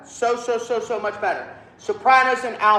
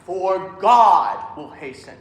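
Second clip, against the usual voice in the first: slow, loud "For God", leaning into the word; pickup brought out; 5 dB louder, slower than usual. Shown as a demonstration. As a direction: bring out "For" into a drawn-out "God". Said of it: "bring it out".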